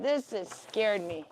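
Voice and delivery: slow, lightly voiced pet; voicing the bunny. Voicing her bunny's complaint, slow and lightly put-on. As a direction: speak slowly for the little rabbit. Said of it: "He's like".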